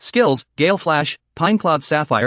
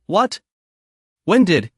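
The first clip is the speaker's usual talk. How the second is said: mildly panicked gasp, pitched higher; a touch of alarm in a higher voice; panicked cry; 3 semitones higher, slower than usual. A narrator's reading. Yu Yun reacts to the monster taking the hit, mildly panicked. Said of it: "he cries out in panic".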